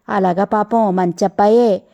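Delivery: slow, approving murmur of praise. Acted. Mother-in-law praising the boy who brought her, slow and approving. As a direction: speak well of the boy, slowly and kindly. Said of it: "అంది ఆవిడ మెచ్చుకుంటూ".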